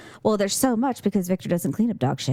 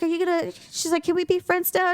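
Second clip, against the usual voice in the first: higher-pitched coaxing voice; imitated coaxing vet; 9 semitones higher than usual. Vet making up with the offended dog, imitated coaxing. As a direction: play the vet trying to make friends, pitched up.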